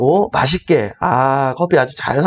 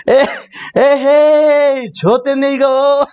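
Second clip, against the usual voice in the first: the wrong take: stretch "에헤이" and say "좆됐네"; mother's dismay, misquoted; 8 semitones higher, much slower than usual. Retold or imitated. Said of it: "맞아, 맞아".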